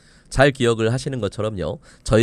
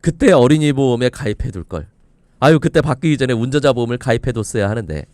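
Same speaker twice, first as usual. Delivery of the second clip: louder put-on lament; mock regret; 4 dB louder than usual. Expert voicing a listener who missed the insurance deadline, mock regret. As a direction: play at kicking yourself, a bit forceful. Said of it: "이런 소리를 하게 될지도".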